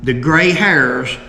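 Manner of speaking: put-on measured old-account narration; reading aloud. Host reads the last article on Jim's killing, measured narration. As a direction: read it out in deliberate, separated phrases.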